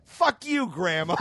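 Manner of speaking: a sudden high yelled curse, laughing through it; mock outburst. Retelling snapping at grandma, high laughing yell. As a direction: fling it at grandma like a bratty teen. Teen swearing at grandma, retold.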